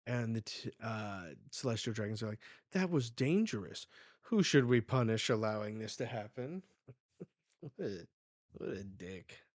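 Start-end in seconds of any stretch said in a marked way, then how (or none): 2.7-6.6 acted outrage, louder voice; mock indignation. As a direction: put on an affronted noble, loudly. Indignant nobles' quote, acted.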